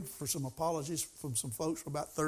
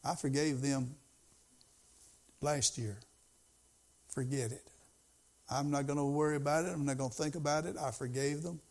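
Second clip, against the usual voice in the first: calm prayer; 3 semitones lower, 4 dB quieter than usual. Retold or imitated. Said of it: "I had to learn to say".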